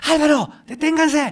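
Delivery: mock very high, frantic, desperate yell. Retelling how the producer shouted through the earpiece: imitating a producer yelling. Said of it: "mi productor me empieza a gritar por el audífono".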